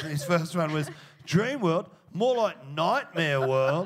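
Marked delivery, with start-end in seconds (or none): 1.3-3.9 bad joke delivery. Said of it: "a whole lot of terrible jokes".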